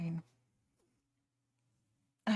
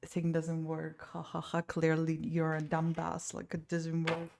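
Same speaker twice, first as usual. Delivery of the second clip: mocking; 4 dB quieter than usual. Retelling a condescending artist's reply, mild mocking sneer. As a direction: sneer it like a smug know-it-all. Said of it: "like, mocking me".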